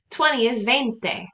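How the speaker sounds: "veinte" spoken slowly and clearly; slow model. Shown as a demonstration. Teacher models twenty for students to repeat. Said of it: "So repeat after me".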